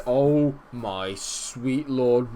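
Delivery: loud, drawn-out awe; awed goal cry. Real, not acted. Fan watching his midfielder score a screamer, stunned and loud. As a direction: stretch it out in disbelief.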